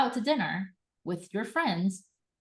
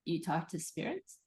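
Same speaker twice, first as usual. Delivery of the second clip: intrigued whisper; slower than usual. Pretend. A curious friend whispers, hooked on the topic. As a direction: drop to a hushed, slow whisper. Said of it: "people are gonna be like".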